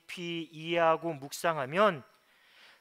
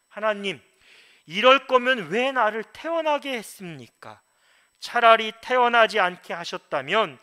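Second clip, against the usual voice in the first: loud, raised voice of anguished protest; crying out to God; 3 semitones higher, 8 dB louder than usual. Retold or imitated. Preacher voices Job protesting to God about his birth, crying out. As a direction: call out forcefully, pitched up, as Job protesting. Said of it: "하나님을 향해서 이렇게 외칩니다".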